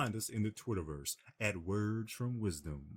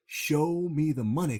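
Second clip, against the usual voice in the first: louder, slow, dragged-out shout of the line; mock yell; 7 semitones higher, 7 dB louder, slower than usual. Jerry on the phone, pushed by his client, slowly yelling it out. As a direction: belt it out slowly, like a man being egged on.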